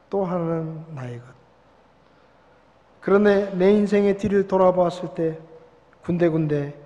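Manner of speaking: calm, gentle poem reading; reading a poem aloud. Acted. Pastor reading Footprints in the Sand, calm recitation. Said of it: "제가 한번 읽어볼 테니까".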